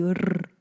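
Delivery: "r" as a bare rolled sound, no letter name; isolated consonant sound. Shown as a demonstration. Teacher demonstrating one consonant of a cluster, "r" trilled alone. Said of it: "dos sonidos consonánticos juntos".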